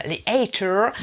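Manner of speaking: "haters" with a drawn American r; mock American accent. YouTuber slang being explained, mock American accent. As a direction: ham up "haters" American-style. Hammed-up take of the English word.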